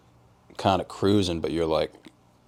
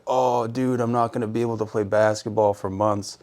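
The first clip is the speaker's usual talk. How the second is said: higher, mildly whining imitation; mock dramatic despair; 4 semitones higher than usual. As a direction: imitate a friend lamenting an injury. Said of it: "I'm all dramatic and, like, depressed".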